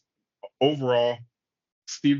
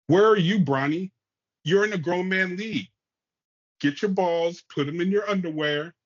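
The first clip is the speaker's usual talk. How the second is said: louder and higher, demanding to know where he is; heated callout; 7 semitones higher, 3 dB louder than usual. Real, not acted. Podcaster ranting at Bronny, loud and high. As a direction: call him out across the room.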